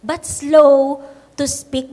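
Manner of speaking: slowed down to model slowness; unhurried, each word spaced; slow, deliberate. Shown as a demonstration. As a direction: stretch out slow to speak. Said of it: "be quick to listen".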